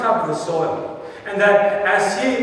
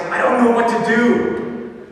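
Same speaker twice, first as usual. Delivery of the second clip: put-on distressed girl; 3 semitones higher than usual. Girl tells her pastor she's lost, mildly distressed. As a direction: play the helpless girl lightly, slowing down. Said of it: "she was so stressed out".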